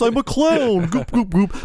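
very high, squeaky goofy clown; silly clown. Retold or imitated. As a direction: pitch way up like a cartoon clown. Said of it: "some clowns are like this".

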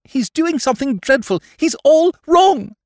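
very high, hysterical lady; frantic cry. A narrator's reading. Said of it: "cried the young woman".

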